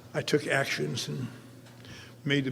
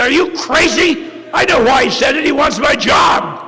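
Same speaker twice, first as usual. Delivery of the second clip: indignant whine; 10 semitones higher, 13 dB louder than usual. Retold or imitated. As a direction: protest like an outraged child. Arguing with sponsor.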